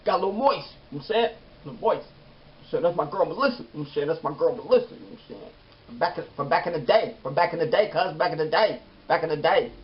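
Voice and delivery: high-pitched hammed-up tearful voice; mock choked up. Fan defending "my girl Melissa" after crying, mock choked up. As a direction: squeeze it out high, repeating as if overcome. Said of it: "I cried everything".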